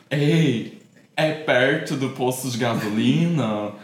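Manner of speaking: slow, drawn-out imitation of a countryside accent; imitated countryside accent. Friend mimicking her date asking directions, drawn-out countryside accent. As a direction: lightly mimic an interior Brazilian accent, stretching the words. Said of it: "Aí ele falava bem assim".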